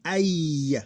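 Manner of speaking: Ay gliding slowly from a to i; diphthong. Shown as a demonstration. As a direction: draw out the glide in Ay. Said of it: "that's a diphthong".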